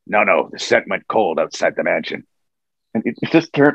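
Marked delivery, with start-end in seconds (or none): 0.1-2.2 Wolverine's line. Retold or imitated. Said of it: "He said".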